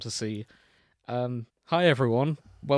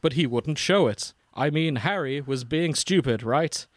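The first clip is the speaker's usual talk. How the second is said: dramatic fanfic narrator; 3 dB louder than usual. Acted. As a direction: read it like an overwrought internet narrator. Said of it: "the narrator I did in Full Life Consequences voice".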